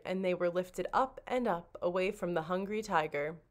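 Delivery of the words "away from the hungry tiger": ordinary delivery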